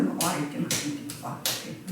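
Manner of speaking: usual speaking voice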